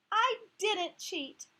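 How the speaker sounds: slow, loud, high insistence; insisting. Acted. Heidi insisting to the class she didn't cheat. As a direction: stretch each word, digging in. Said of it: "insisted Heidi".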